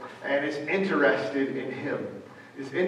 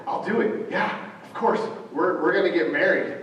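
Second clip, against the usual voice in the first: excited promise; 2 semitones higher than usual. Retold or imitated. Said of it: "he gets excited for a minute".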